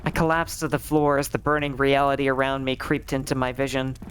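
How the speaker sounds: ordinary delivery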